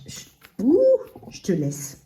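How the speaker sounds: talking through dental braces; slight lisp from braces. Real, not acted. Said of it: "Désolée, j'ai un appareil dentaire".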